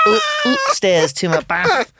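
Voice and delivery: hammed-up northern English vowels; Manchester accent. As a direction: imitate a Manchester wife saying "oop-stairs". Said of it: "a Manchester accent".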